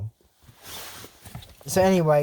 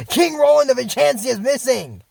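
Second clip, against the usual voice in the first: higher, mock alarmed proclamation; alarmed announcement; 5 semitones higher, 4 dB louder than usual. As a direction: announce it like an emergency bulletin. Mock alarmed announcement of missing king.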